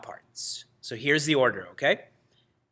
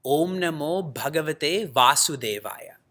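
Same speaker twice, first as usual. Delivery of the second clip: mantra recitation. Shown as a demonstration. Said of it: "This mantra is".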